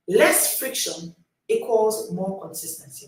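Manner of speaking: each word weighed and slow; slow and deliberate. Shown as a demonstration. Coach to readers, slow for note-taking. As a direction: spell it out slowly so they can write it. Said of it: "Write it down".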